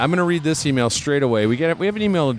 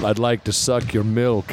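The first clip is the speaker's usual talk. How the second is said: vampire voice. Acted. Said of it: "a vampire made out of horchata".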